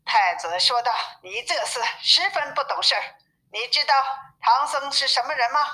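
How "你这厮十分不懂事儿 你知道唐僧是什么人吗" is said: brisk, higher scolding rebuke; rising, fast rebuke from the prince. Acted. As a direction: tell off a foolish cousin.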